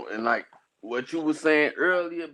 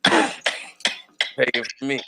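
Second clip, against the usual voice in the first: slow drawn out; 6 dB louder, much slower than usual. Acted. Friend repeats line, drawn out.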